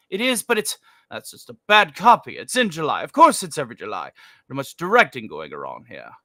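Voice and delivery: lightly voiced booming Welles, grumbling at the director; a hint of a pompous old actor refusing the script; Orson Welles impression. Welles arguing with the ad director in a mild put-on growl. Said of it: "A little, a little Orson".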